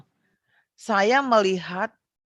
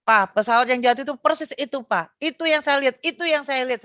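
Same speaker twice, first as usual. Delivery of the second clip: mild mock cry-out, pitched up on the repeats; insistent, higher-pitched imitation of crying out; retold screaming; 4 semitones higher than usual. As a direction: retell an urgent scream without really screaming. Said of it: "sama jerit begitu lihat T V".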